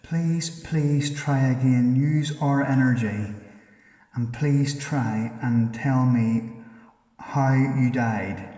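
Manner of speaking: loud, slow, insistent pleading; loud, drawn-out coaxing call to a spirit; urging plea. Real, not acted. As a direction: press the spirit to answer, slowly.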